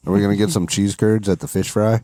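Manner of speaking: laughing through the joke question; amused, giggling delivery. Pretend. Joking Wisconsin stereotype.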